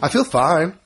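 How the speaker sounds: hoarse, strained voice; talking through a wheezy throat. Real, not acted. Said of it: "I just sound like Wheezy".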